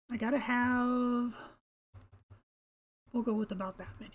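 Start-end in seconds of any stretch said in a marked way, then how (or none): 3.1-4.1 quick breathy whisper to herself. Real, not acted. Player counting materials in a whispered aside. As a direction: whisper the count to yourself, fast.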